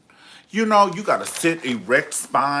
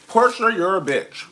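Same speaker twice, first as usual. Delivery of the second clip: playful outburst; 8 semitones higher, 6 dB louder than usual. Real, not acted. Reading a viewer's comment.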